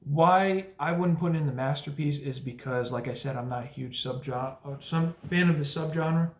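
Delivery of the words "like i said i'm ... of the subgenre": stumbling over the word; stuttering. Real, not acted. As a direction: trip over subgenre, restart it. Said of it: "Excuse me, I know I'm stuttering".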